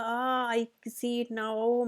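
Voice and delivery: drawn-out mock groan while stretching, very slow. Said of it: "इतना कराहते हुए कहा". (कराहते हुए, खिंचा हुआ और बहुत धीमा)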